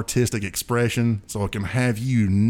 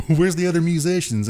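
mock confusion; 7 semitones higher, 4 dB louder than usual. Confused at Garth's studio.

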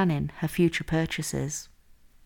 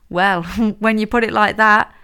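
laughing through the words, higher and louder; amused laugh; 4 semitones higher, 7 dB louder than usual. A narrator's reading. Hazel conceding Amelia's point on the phone, laughing. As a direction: chuckle after the first word and concede brightly. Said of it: "Hazel laughed".

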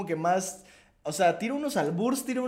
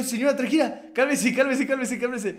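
louder, higher, urgent pleading to calm down; calming the lady; 5 semitones higher, 4 dB louder than usual. Retold or imitated. Narrator replays calming the angry grandmother, louder and higher. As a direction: hold off an angry old lady. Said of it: "Y le, yo".

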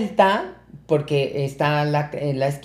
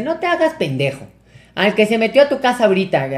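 higher-pitched mock scolding; mamá encabronada, imitada; 4 semitones higher than usual. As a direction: confront him like an angry mother. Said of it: "mi mamá estaba bien encabronada". (regaño de mamá enojada, imitado)

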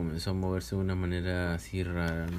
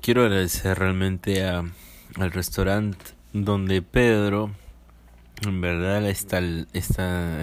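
slow, emphatic sponsor shoutout; ad read; 4 dB louder than usual. Acted. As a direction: sell the restaurant name. Praising the sponsor.

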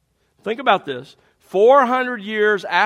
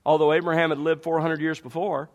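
ordinary delivery

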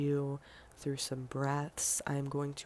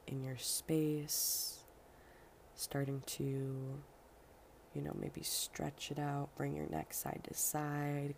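guided meditation; 3 dB quieter than usual. Acted. Host settling listeners into their seats before meditation, unhurried guiding voice. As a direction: guide them gently through loosening up, drawing out line endings.

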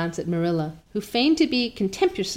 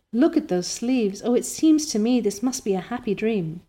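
overjoyed Anne; 2 semitones higher than usual. Acted. Anne overwhelmed with joy.

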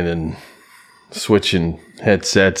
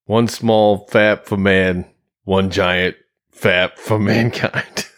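moon landing quote; much slower than usual. Pretend.

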